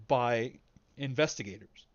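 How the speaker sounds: words pushed out through a burp. Real, not acted. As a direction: talk through a small burp. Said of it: "burping a bunch".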